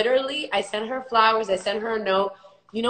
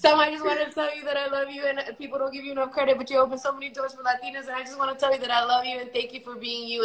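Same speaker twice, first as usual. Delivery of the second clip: gushing fan; 4 semitones higher, faster than usual. Retold or imitated. Retold gushing speech to Salma.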